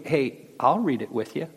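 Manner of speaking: with humility. Retold or imitated. Inviting a skeptic to read the Bible, humbly and softly. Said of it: "I'll say with humility".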